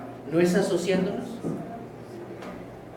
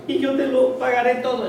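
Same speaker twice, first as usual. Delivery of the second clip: high, begging promise; pleading promise; 5 semitones higher than usual. Acted. Servant promising his master to pay, pleading. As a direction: beg sincerely. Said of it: "le suplicaba diciendo".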